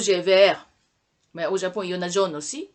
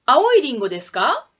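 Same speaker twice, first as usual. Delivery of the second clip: quick drill question; 2 semitones higher, 6 dB louder, faster than usual. Shown as a demonstration. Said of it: "Répondez".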